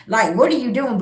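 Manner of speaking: put-on yelling back at a drunk abuser; mock furious shout; retold angry yelling. Retelling telling off drunk partner.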